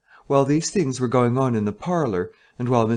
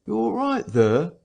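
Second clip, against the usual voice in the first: high, raised call through a closed door; 9 semitones higher than usual. Acted. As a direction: call out to the room behind the door.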